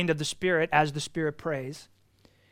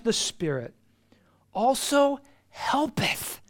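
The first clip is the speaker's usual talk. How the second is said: hushed whisper; 7 semitones higher, slower than usual. Acted. Whispered scripture reading.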